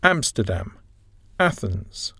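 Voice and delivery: Amsterdam and Athens, stressed on AM and ATH; initial word stress. Shown as a demonstration. Teacher modelling city names, Amsterdam and Athens stressed on the first syllable. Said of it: "Initial word stress".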